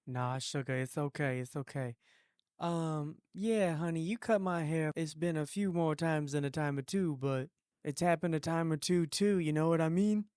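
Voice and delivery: lightly voiced sassy southern lady; a hint of a brassy hairdresser client; sassy woman. Prank call, sassy put-on voice.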